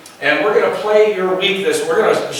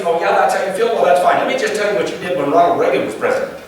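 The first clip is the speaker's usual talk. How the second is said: mock angry spouse; faster than usual. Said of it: "you said it just like this".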